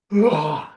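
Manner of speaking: loud groaning mock wail; imitated bawling. Speaker imitating wife bawling out of the bathroom, mock wail. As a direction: imitate a burst of crying. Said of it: "bawling, crying, just like".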